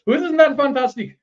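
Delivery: high-pitched, hammed-up Al Qaeda accent; bad mock foreign accent. Host mimicking gleeful Al Qaeda plotters, bad mock foreign accent. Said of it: "a little bit of an accent".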